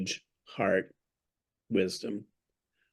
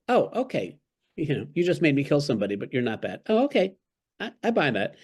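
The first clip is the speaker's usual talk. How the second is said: higher, hammed-up gullible acceptance, rushed in the middle; mock naive Dorothy; 4 semitones higher, faster than usual. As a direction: play Dorothy shrugging off a killing, sweetly gullible. Dorothy swallows the wizard's excuse.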